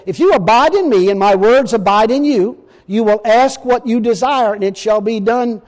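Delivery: solemn preacher reading scripture. Acted. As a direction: read the verse with weight, slowing at the end.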